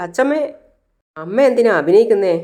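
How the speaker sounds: high, indignant cry on അച്ചമ്മേ; angry retort. Retold or imitated. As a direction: snap back in mock outrage at grandma. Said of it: "സുധിക്ക് ദേഷ്യം പിടിച്ച്". (അച്ചമ്മയോട് ദേഷ്യത്തോടെ സുധി, ഉയർന്ന സ്വരത്തിൽ)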